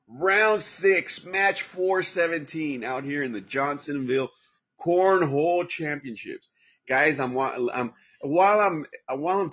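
excited. Real, not acted. Excited about cornhole match.

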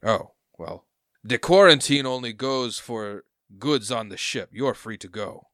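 lightly voiced curt official; a hint of an official waving off a captain; dismissive harbor master. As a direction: brush him off like a bored bureaucrat.

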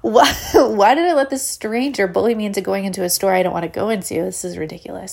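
mock-hysterical self-questioning with a laugh; hysterical thought. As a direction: ask yourself in exasperated, hammed-up panic. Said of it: "I have this hysterical thought".

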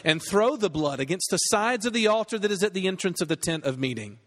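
measured, even-toned Bible reading; scripture reading. Acted. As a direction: read the passage aloud formally, phrase by phrase. Reads scripture aloud to congregation.

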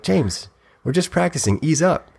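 begging a sparring partner to ease up; quoting a singer. Retold or imitated. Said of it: "a singer is quoted as saying".

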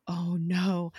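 whispered, horrified retelling; hushed dismay. Retold or imitated. Coulson finds Skye shot, whispered mock dismay. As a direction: let it out as a stunned whisper.

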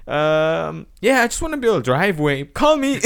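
high and loud, cracking into laughter; laughing voicemail. Retold or imitated. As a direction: leave the message while breaking up laughing. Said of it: "So I was like".

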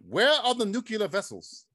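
lightly voiced Star Trek character; Star Trek quote. Quoting Star Trek to friends while filming, lightly put-on character voice. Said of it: "He's gonna start quoting Star Trek now".

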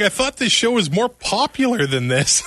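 laughing while quoting the tweet; laughing quote. Retold or imitated. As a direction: read the tweet through laughter. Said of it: "He's like".

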